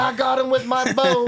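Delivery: high voiced old hunter, proud; old man voice. Voicing old Gerald's proud claim.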